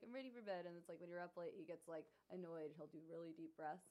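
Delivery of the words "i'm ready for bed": higher-pitched dog voice, lightly put on; voiced sleepy dog. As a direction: lightly play a dog asking for bed. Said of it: "And he's like".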